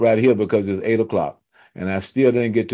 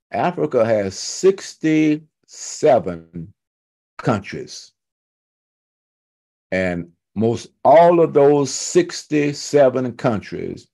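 slow, deliberate preaching cadence; measured, weighty list delivery; emphatic teaching; 3 semitones higher, slower than usual. Real, not acted. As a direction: stretch the key words and pause between phrases. Preacher drives a point home.

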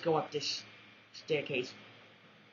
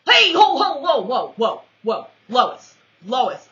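startled yelling; 4 semitones higher, 11 dB louder than usual. Real, not acted. Startled yelling during a firefight.

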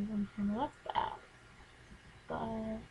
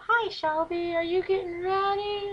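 much higher, slower squeaky fish voice; voicing the fish; 8 semitones higher, 5 dB louder, slower than usual. Pet fish answering its owner, high silly pretend voice. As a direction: play the fish talking back, high and slow. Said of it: "I act like they were talking".

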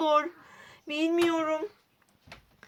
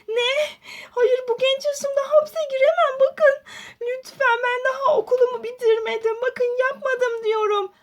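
higher, desperate pleading; high-pitched panicked pleading; 5 semitones higher than usual. Acted. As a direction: beg not to be jailed. Aden panik içinde yalvarıyor. (tutuklanmamak için panikle yalvarıyor)

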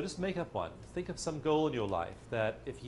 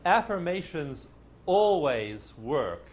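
slow emphatic; 3 semitones higher, 6 dB louder, much slower than usual. Shown as a demonstration. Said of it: "You don't believe me?".

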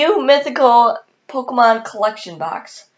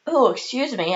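talking through hiccups; 2 semitones higher than usual. Real, not acted. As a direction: catch on a hiccup mid-word. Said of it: "I have the hiccups right now".

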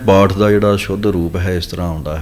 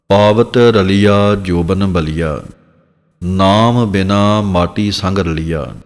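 slow recitation; slower than usual. Shown as a demonstration. Teacher recites scripture line slowly.

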